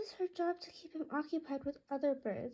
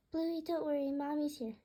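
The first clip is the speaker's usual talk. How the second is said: eager calling out; 4 semitones higher than usual. Acted. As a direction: rush in reassuring the bird, voice lifted. Girl calling to her bird.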